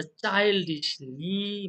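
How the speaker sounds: চাইল্ডিশলি with its final লি stretched long; drawn-out rhyme ending. Shown as a demonstration. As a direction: hold the last syllable of চাইল্ডিশলি to show the rhyme. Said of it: "আই উচ্চারণের সঙ্গে".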